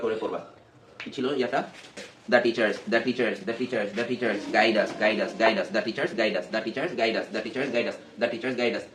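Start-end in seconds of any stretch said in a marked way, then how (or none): 2.3-8.9 steady rote repetition, running words together; chanted reading-practice rhythm; fluent reading drill. Shown as a demonstration. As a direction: repeat the phrase over and over at an even clip. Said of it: "এরকম স্পিডে পড়তে পারতেছো".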